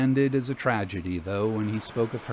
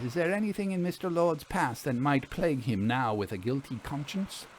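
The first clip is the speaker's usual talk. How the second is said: lightly voiced Vera, a touch higher; 3 semitones higher than usual. Vera questions Silva about client.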